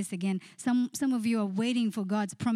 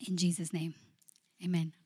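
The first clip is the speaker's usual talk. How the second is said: prayer voice. Acted. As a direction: pray over the church with feeling. Leads the congregation in prayer.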